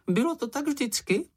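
very high, piping small-animal voice; squeaky little creature. A narrator's reading. Čenich answering the others in a high piping squeak. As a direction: pipe it up like a tiny critter.

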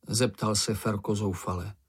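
usual speaking voice

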